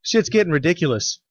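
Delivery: quick, hammed-up Canadian accent with eh; mock Canadian accent. Cohost riffing on missing America, mock Canadian accent. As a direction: pretend homesick Canadian in a Canadian accent. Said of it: "It's the only way people know I'm doing a Canadian accent".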